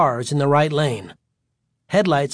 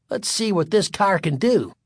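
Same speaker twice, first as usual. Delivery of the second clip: eager, higher-pitched urging; 6 semitones higher than usual. A narrator's reading. Son leaning forward to dad, urging. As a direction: egg the driver on. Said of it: "Terry urged".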